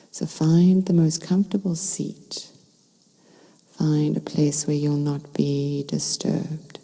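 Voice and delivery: calm meditation guide with long pauses between phrases; unhurried, soothing guidance, phrase by phrase; guided meditation. Real, not acted. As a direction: lead listeners gently into stillness, leaving space to breathe.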